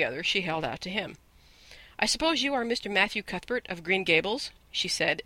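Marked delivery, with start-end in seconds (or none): none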